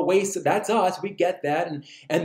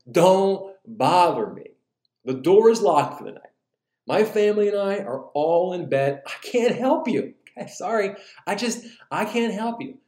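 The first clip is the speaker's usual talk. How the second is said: grumpy yell; 5 semitones higher than usual. Acted. Grumpy neighbor to friend knocking at night, yelled. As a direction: holler through a locked door, grumpy. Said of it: "he yells out and he says".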